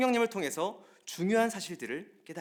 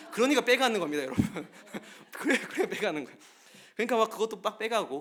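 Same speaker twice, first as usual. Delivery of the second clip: real laughter breaking into loud, higher speech; amused laughing; 5 semitones higher, 6 dB louder than usual. Real, not acted. Preacher joking to congregation about stolen manhole covers, laughing. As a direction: laugh through the words, voice jumping up. Amused by his own anecdote.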